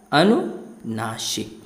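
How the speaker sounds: अनुनासिक said slowly, sounding the nasal vowels through the nose; drawn-out अनुनासिक for the class; nasal vowel demo. Shown as a demonstration. Teacher slowly models अनुनासिक for pupils. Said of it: "कहते हैं अनुनासिक".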